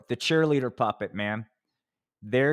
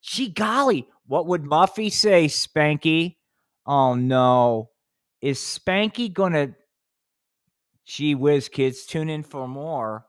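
peppy cheerleader; 3 semitones higher, 3 dB louder, slower than usual. Pretend. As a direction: tease the next episode like a perky cheerleader. Cheerleader puppet talking to Spanky.

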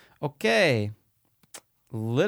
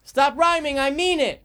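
shrill mock Vizzini; high squeaky movie quote; 6 dB louder, slower than usual. Quoting Princess Bride villain.

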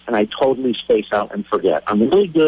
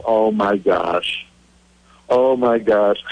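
slow, sinking realization; dawning dismay; 2 semitones lower, slower than usual. Retold or imitated. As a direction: let it land slowly, stunned. Realizing he left his passes behind.

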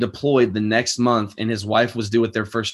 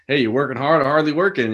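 embarrassing dad joke; 4 semitones higher than usual. Shown as a demonstration. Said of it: "such a classic dad joke".

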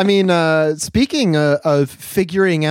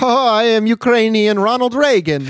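mock grandiose; 7 semitones higher, 4 dB louder than usual. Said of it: "now he's like".

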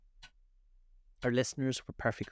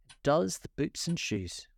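slow and solemn; 7 semitones higher than usual. A narrator's reading. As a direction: say it gravely and slowly. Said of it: "the Griffin replied very solemnly".

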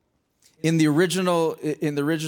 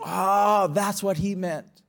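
sudden realization; much slower than usual. Acted. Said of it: "all of a sudden they go".

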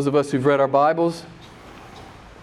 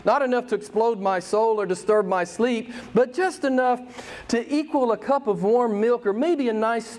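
mocking the shallow believer; 6 semitones higher than usual. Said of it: "this is what Wilbur Reese says".

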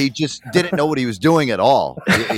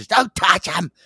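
higher mock dad yell, dropping to a hiss; imitating dad yelling; 7 semitones higher, slower than usual. Son imitating his dad scolding him, higher then hushed. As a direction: warn the kid off the lobster. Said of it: "My dad would fucking yell".

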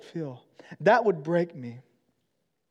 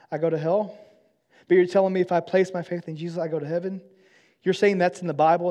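raised, heated voice, higher and louder; angry disbelief; 5 semitones higher, 6 dB louder than usual. Retold or imitated. Coworker confronting his Christian friend, angry and raised. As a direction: demand answers, voice climbing in anger. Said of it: "He became angry".

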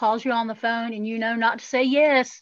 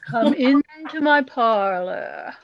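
sinister invitation; much slower than usual. Acted. Spooky spider quote, slow.

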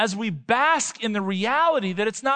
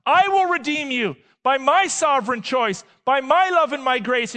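a hint of a booming reassuring God, higher; lightly voiced God; 5 semitones higher, 5 dB louder than usual. Preacher voicing God's answer to failing believers, lightly booming. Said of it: "God's like".

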